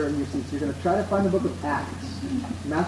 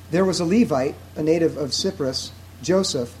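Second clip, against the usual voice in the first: slow, deliberate scripture reading with emphatic key words; 3 dB louder than usual. Real, not acted. Preacher reading scripture so listeners can imagine the scene, slow reading. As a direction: read it out slowly, pausing between phrases. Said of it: "I'm gonna read it slowly".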